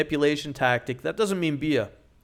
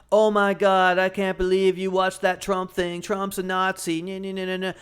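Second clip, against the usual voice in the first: mock offended girlfriend; 4 semitones higher than usual. Girlfriend catching him watching a Trump video, mock outrage. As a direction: play the shocked girlfriend mocking his video. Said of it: "she goes".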